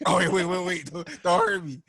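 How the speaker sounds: imitating a cowardly captive backing down; mock pleading. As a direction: beg in a hammed-up panic. Retold gorilla begs for mercy.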